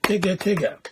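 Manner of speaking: Tigga Tigga with each of its four syllables cleanly separated; the right way, every syllable spoken. Shown as a demonstration. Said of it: "Let me do that again".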